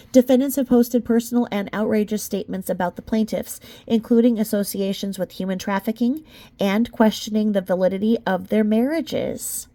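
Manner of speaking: measured, even legal read; steady courtroom-brief reading voice; formal document reading. Acted. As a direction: read it like a lawyer's filing. Reading the legal complaint aloud.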